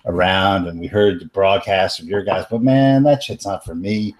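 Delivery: put-on light Bronx teen New York accent; casual New York accent, Bronx kid. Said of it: "your super sweet New York accent".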